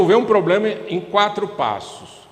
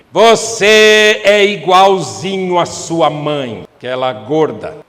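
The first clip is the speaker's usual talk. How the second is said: loud, slow, scornful jab; mock insult; 8 dB louder, slower than usual. Spouse insulting partner's mother in a fight, loud slow scorn. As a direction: spit it out slowly with contempt.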